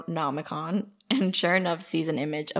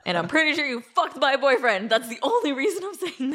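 Natalie voice; 8 semitones higher than usual. Retold or imitated. Keeps voicing Natalie, laughing.

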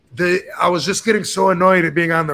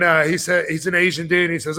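ordinary talk, nothing marked

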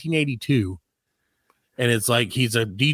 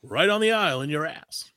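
radio voice; 3 semitones higher than usual. Pretend. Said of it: "the radio voice".

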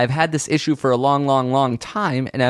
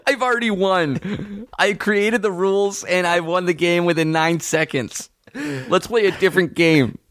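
laughing; 8 semitones higher than usual. Real, not acted. Laughing, mock gloating.

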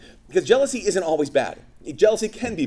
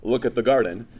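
sarcastic duh; 4 semitones lower than usual. Acted. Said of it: "she's like".

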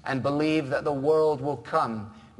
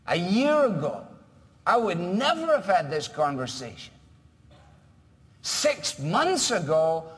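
building excitement; 3 semitones higher than usual. Pretend. Eager convert's testimony.

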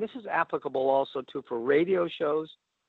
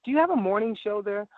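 polite higher-pitched caller asking; 5 semitones higher than usual. Retold or imitated. Caller politely asking the station about its morning show. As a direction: ask it nicely and a little higher. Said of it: "you say politely".

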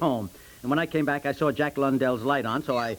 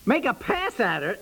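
outraged disbelief; 9 semitones higher than usual. Acted. Husband accused of pass.

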